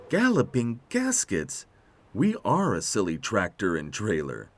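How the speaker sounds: mild sigh of realisation; exclaim, then settle into mild resignation. Acted. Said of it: "sighed Tech".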